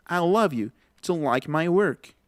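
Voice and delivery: slow "I love you to like my work", work as "werk"; English example sentence. Shown as a demonstration. Teacher demonstrating after translating, slow English demo. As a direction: repeat the sentence slowly with ER in work.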